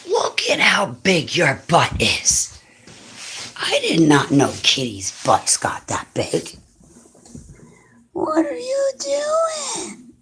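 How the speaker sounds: slow whisper to the kitty; whisper to cat. Real, not acted. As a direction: hush it to the cat so it stays calm.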